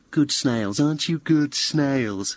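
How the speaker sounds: mock praise, as if to pets; imitated patronising baby-talk. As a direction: coo condescendingly, drawing out the question. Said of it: "in a really patronising way".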